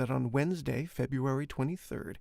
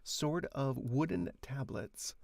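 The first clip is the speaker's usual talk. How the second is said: slow demo; 5 dB quieter, slower than usual. Shown as a demonstration. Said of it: "do it as if you were playing".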